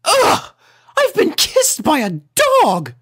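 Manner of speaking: very high, loud shriek of disgust; disgusted scream. A narrator's reading. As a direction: scream like a fussy lady. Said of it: "she was screaming like mad".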